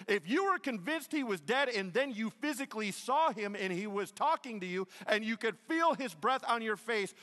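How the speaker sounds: loud, high, driving sermon delivery; rising preacher's fervor; full-force preaching. Acted. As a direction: preach it hard to the room.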